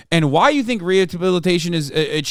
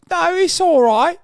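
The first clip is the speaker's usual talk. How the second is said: mock British copper, brushing it off, voice pitched higher; dismissive cop; 13 semitones higher, 4 dB louder than usual. Mocking British police waving away a rape accusation, high mock voice. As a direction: shrug it off like a smug copper. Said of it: "British authorities saw that and were like".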